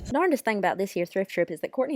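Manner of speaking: lightly put-on Southern country accent; Kentucky McCare. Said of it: "talking in these funny accents".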